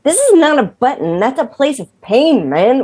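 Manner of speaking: mock-indignant high protest to a boyfriend; lightly acted high-pitched complaint; retold protest. To her boyfriend pressing a bruise, high mock protest. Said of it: "And I'd be like".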